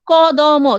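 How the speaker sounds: ক দ ম said as three separate sounds, each one clear; spelled out syllables. Shown as a demonstration. Teacher shows the class each sound of ক দ ম, one by one. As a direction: break ক দ ম into three distinct sounds. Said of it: "তিনটা উচ্চারণ হচ্ছে".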